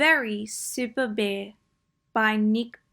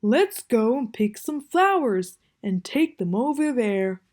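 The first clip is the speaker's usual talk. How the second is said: Bear's voice; 3 dB louder than usual. Acted. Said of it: "said Bear".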